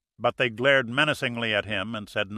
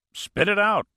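much higher, urgent push; pressing demand; 10 semitones higher, 4 dB louder than usual. A narrator's reading. Sheriff urging his panting deputy, sharp and urgent. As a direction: force the answer out of him now. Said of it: "Egan pressed".

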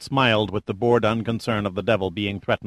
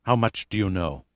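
a lightly voiced hoarse near-whisper, softer; 4 dB quieter than usual. A narrator's reading. Capistair, caught out by Pitt, hoarse whisper. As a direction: rasp it out, shaken. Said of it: "spoke in a hoarse whisper".

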